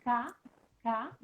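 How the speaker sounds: K, K made at the back of the mouth; K sound. Shown as a demonstration. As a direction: demo a clean back K. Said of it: "la K".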